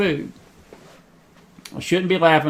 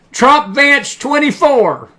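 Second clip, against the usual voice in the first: laughing; 7 semitones higher, 4 dB louder, much slower than usual. Real, not acted. Laughs while announcing motto.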